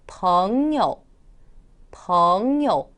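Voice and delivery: 벙여 with 벙 gliding long upward, 여 dropping lightly; second plus neutral tone. Shown as a demonstration. Teacher demonstrating tones, 벙여 rising long then dropping. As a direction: pull 벙 up, then let 여 fall short. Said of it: "쭉 끌어올렸다가 살짝 내려주네요".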